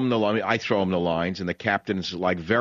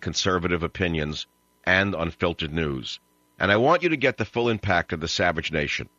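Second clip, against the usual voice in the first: low, measured host plug; radio promo read; 5 semitones lower than usual. Acted. Host urging listeners to join online, low promo read. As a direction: pitch the membership in a lower, even voice.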